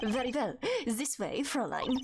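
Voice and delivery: smooth gentleman with a put-on German accent; amateur suave German accent; bad German accent. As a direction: usher her along in a wobbly German accent. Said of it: "do I need to give him a German accent?".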